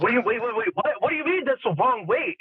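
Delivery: shocked disbelief. Retold or imitated. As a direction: act floored by the news. Shocked at wrong weight news.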